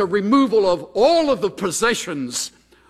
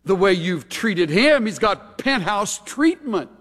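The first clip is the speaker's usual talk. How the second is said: sarcastic; 2 semitones higher than usual. Retold or imitated. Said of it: "operating procedure of sarcasm".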